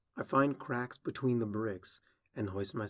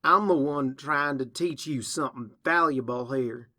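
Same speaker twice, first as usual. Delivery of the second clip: indignant self-defence; 3 semitones higher, 8 dB louder than usual. Acted. Older sister defends herself.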